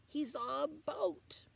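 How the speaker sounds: slow hushed whisper; dramatic whisper. A narrator's reading. Reader hushes the children, a slow whisper. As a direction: whisper it like a secret.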